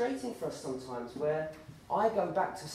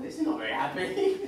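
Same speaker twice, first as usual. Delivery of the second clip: high, laughing put-on politeness; mock fake cheer; 14 semitones higher, 7 dB louder than usual. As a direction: squeeze it out high through forced jollity. Mocks awkward family gathering.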